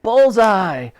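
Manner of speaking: high, loud exclamation; triumphant cheer. A narrator's reading. Onlookers celebrate Titch's hit, triumphant. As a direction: cheer a perfect shot.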